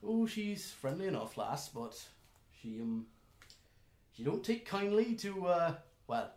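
lightly voiced rustic elf; hesitant friendly warning in character; a hint of a folksy elf; elven stranger. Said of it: "He's like".

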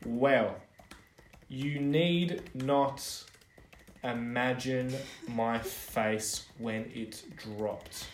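slow, soft and mournful; mock dramatic. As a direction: drag it out for drama. Dramatic letter reading.

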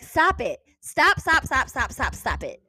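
loud, high repeated stop; exasperated scolding; angry stop. Retold or imitated. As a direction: scold them over and over. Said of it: "I was so angry".

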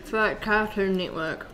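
talking while eating; words around a bite of food; mouth full. Real, not acted. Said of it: "you're talking while eating".

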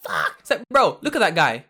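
very high, loud excited yells; a fan going wild at the fighter, shouting his friend's name; hyped shout. Real, not acted. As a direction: scream it, losing your mind.

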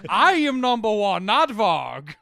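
slow, loud imitating Elon Musk; mock Elon voice, dragged out; Elon Musk impression. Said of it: "That's how he sounds".

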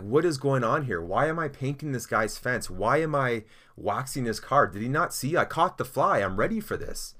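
acted, mildly exasperated complaint; exasperated protest. Pupil protesting about fence and car, mock exasperated. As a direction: imitate a pupil questioning pointless chores.

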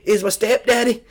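high-pitched mock holler with a Southern accent; high Southern-accented yell, half volume; imitated yelling. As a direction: imitate a recruit yelling on command. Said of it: "just yelling".

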